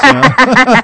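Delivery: laughing through the words; giggly, laughing it out. Real, not acted. Laughing at own joke.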